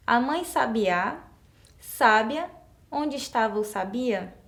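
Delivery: sabiá, sábia, sabia read slowly as a wrong option; slow demo of the wrong accents. Shown as a demonstration. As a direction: read the wrong stresses slowly to show they fail. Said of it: "Não tem sentido".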